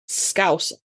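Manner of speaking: "Scouser" with one long vowel, ending dropped; local pronunciation. Shown as a demonstration. Brit demonstrating her vowels, "Scouser" drawn out then dropped. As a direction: elongate the first vowel of "Scouser", let the rest fall away. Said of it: "we drop a few of them".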